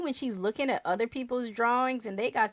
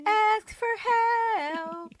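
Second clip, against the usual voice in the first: mock incredulous; 11 semitones higher, much slower than usual. Mocking the unthinkable.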